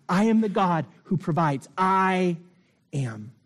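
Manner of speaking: rising preacher's cadence on I am; swelling litany of I am; building preaching refrain. Acted.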